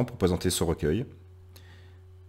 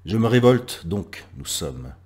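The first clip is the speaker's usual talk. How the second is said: citation déclamée; 3 semitones higher, 8 dB louder, slower than usual. Acted. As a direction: proclaim the first words, let the rest settle. (citation proclamée avec force)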